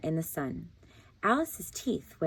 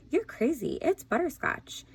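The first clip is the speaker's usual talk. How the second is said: arguing gator; 9 semitones higher than usual. A narrator's reading. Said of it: "shouting louder and louder".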